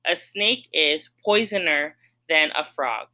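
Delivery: mock trial of a wrong form; deliberately wrong form. Shown as a demonstration. Teacher testing a wrong form for students, mock trial. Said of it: "Let's try it".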